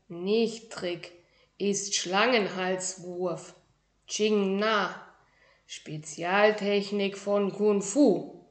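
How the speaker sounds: lightly voiced tiny master, slow and proud; proud little kung fu master. Tiny shoe-dwelling master introduces himself to a boy, proudly. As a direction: announce your grand title with dignity. Ming explains his technique.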